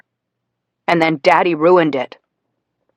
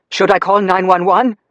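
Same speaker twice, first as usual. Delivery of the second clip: yelled; 4 semitones higher, 4 dB louder than usual. Acted. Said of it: "Daddy yelled".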